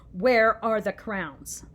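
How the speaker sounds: loud, drawn-out demanding yell. Acted. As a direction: bellow the question slowly and loud. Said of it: "Why are you yelling?".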